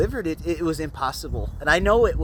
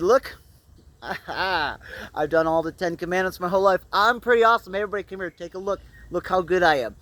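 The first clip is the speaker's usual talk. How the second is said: boastful show-off; 3 semitones higher, 4 dB louder than usual. Retold or imitated. Boastful man showing off to Jesus.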